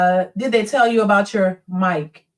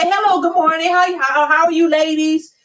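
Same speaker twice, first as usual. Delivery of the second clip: higher, courtly greeting; polite gentleman; 5 semitones higher than usual. Retold or imitated. Mocking a gentleman greeting ladies in a high courtly voice. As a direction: sing out a proper hello. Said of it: "You can't say".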